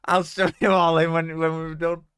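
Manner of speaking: excited. Real, not acted. Excited promise to viewers.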